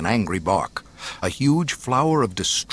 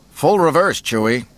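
high, loud order; urgent command; 7 semitones higher, 6 dB louder than usual. A narrator's reading. Solo to Chewie fleeing the station, urgent command. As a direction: call out the order sharply.

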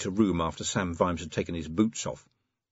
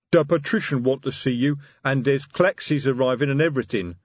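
insistent troll voice; 5 semitones higher, 4 dB louder than usual. Acted. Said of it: "said Detritus insistently".

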